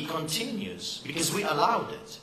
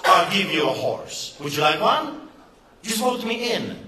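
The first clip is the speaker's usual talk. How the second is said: hammed-up campaign pitch; 3 semitones higher, 3 dB louder than usual. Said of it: "let me just take the same pitch".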